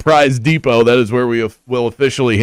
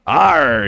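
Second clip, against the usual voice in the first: pirate growl. Pretend. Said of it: "I could talk like a pirate".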